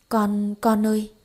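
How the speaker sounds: slow, faltering, stammered call; startled stammer. Acted. Mother stammers to her stirring daughter, startled and slow. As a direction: stumble over the words in shock. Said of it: "lắp bắp".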